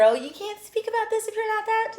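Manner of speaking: mocking whine. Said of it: "I don't wanna hear".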